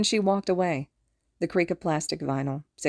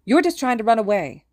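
loud, higher-pitched accusation; angry accusation; 5 semitones higher, 7 dB louder than usual. A narrator's reading. Mitsuki accusing Hisashi of fleeing, angry accusation. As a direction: fire it at him hotly.

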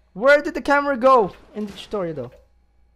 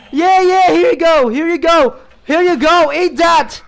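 raised, exasperated insistence; impatient shout; 4 semitones higher, 4 dB louder than usual. Real, not acted. Player feeding a demanding baby, impatient shout. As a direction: keep repeating it, higher and fed up. Hurriedly feeding a nagging game character.

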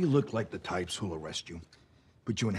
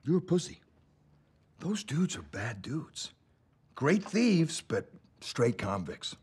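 loud, higher sneering taunt; taunting shout; 7 semitones higher, 4 dB louder, slower than usual. Acted. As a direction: spit out the insult loudly. Cop taunts suspect.

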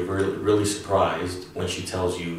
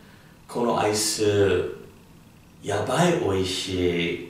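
delighted. Shown as a demonstration. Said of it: "a positive way of using yabai".

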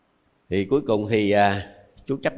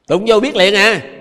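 slow loud emphasis; 8 semitones higher, 8 dB louder than usual. Shown as a demonstration. Restates the shock example.

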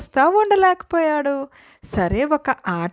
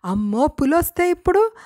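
frightened; 3 semitones higher than usual. Acted. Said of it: "కొండయ్యకి భయం వేసిందంట".

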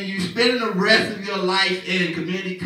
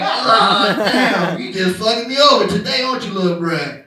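exasperated outburst; 6 dB louder than usual. Retold or imitated. Dad exasperated at baby.

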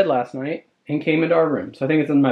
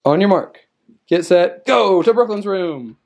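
race starter. Pretend. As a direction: send the kids off like a playful race.

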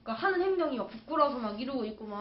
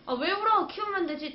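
put-on reassuring boyfriend; 7 semitones higher than usual. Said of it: "그 말 듣자마자".

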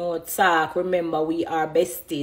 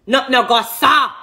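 she leans on not no go, louder; insistent repeat; 4 semitones higher, 4 dB louder than usual. Real, not acted. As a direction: repeat it firmly, stressing "Not no go".

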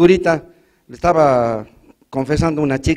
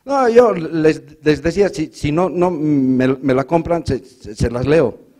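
repeating syllables, stuck on words; slow, stammering reply; stutterer voice; slower than usual. Retold or imitated. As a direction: play the town stutterer stumbling through. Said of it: "el tartamudo del pueblo".

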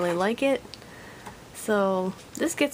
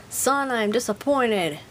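disappointed dad; 3 semitones higher, slower than usual. Acted. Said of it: "picture of Minya going".

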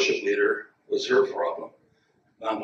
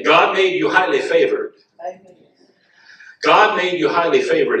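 GOD made you highly favored, hit louder and higher; louder emphatic repeat; 4 semitones higher, 4 dB louder than usual. Shown as a demonstration. Congregation hears the preacher repeat it, punched louder. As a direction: say it again, stronger. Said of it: "let me say that again".

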